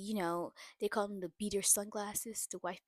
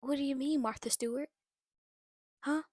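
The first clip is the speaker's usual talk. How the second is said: louder, higher, rising indignation; indignant outburst; 5 semitones higher, 9 dB louder than usual. Real, not acted. Vlogger scolding the mother on screen, indignant loud outburst. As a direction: demand an answer in disbelief. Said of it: "that whole conversation just irritated me".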